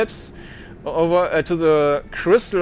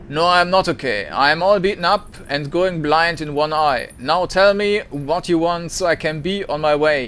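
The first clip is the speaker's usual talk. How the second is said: louder, bitter, hostile snarl; a beaten old squatter snapping back; spat out venomously; 3 dB louder than usual. Acted. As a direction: spit each word at the stranger. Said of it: "He spits the words out like a venom".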